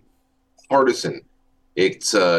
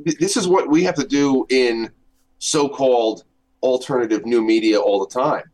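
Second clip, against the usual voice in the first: tin can sound; 2 semitones higher than usual. Real, not acted. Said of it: "You sound like you're in a tin can".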